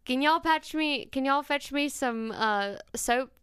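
slow Southern drawl; Southern accent. Shown as a demonstration. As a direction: show off an everyday Southern drawl, unhurried. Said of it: "No, it's more like".

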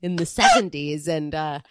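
put-on comic character voice; Chris. Co-host asked for the bit, hammed-up character voice. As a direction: reminisce in a lightly put-on persona. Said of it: "do it in your Chris voice".

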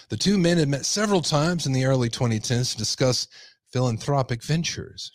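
emphatic news-story read; projected article narration. Acted. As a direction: read out the report like a newscaster.

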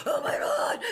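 hushed, breathless shock; horrified whisper. Retold or imitated. Mom whispering in horror after yelling at baby.

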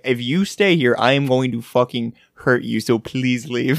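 retold threat, slowing down on the plea; intense warning. Podcaster retelling the fly scientist's warning, mildly intense. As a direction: warn them firmly, stretching out "please leave". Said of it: "doesn't even say it that intently".

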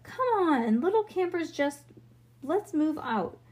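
rally the little ones to march; rallying call. A narrator's reading. Bean standing to lead campers, rallying call.

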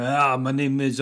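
lightly put-on, clumsy Scottish accent; hint of a hammy Scot; bad Scottish accent. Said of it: "with a really bad Scottish accent".

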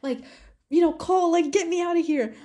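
retold panicked plea. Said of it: "crying literally in the bathroom".

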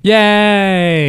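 high, bright cheer; excited cheer. Pretend. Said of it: "we should be more excited".

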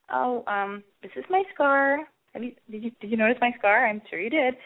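lightly flirty, put-on sexy delivery. Woman showing a date her scar, trying to sound sexy. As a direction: act coyly seductive about it. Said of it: "I try to say it in a sexy way".

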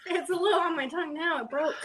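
laughing and crying at once; teary laugh through the burn. Real, not acted. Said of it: "I'm crying".

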